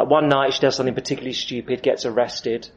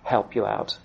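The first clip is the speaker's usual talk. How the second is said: kindly teacher; 4 semitones lower, 8 dB quieter than usual. Retold or imitated. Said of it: "says the kindly teacher".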